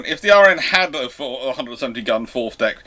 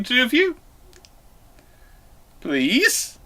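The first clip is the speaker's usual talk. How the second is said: high, exasperated begging; mock pleading; 9 semitones higher, 3 dB louder than usual. Real, not acted. Host begging Dan to sort it out with Gareth, high exaggerated pleading.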